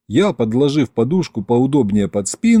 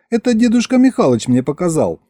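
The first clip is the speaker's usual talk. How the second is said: lightly voiced teasing wife; 3 semitones higher than usual.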